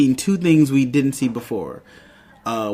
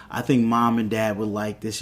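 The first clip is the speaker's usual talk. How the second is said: retold brother's remark; 2 semitones lower, 3 dB quieter than usual. Brother retold chatting to his sister, understated casual remark. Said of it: "and he's like".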